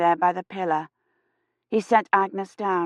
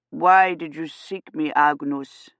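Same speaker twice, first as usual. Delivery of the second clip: gentle priest voice; 3 semitones lower, slower than usual. Acted.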